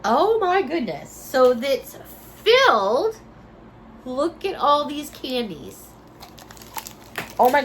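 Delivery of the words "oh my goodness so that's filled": thrilled, voice jumping up; excited. Real, not acted. Opening candy can, delighted.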